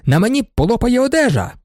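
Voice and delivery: high complaining yell; indignant shout. Acted. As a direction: squeal it out in protest. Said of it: "кричав він".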